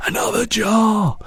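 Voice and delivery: high, slow excited call; excited cry. A narrator's reading. BFG catching a second dream, high excited cry. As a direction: call out eagerly. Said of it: "he cried".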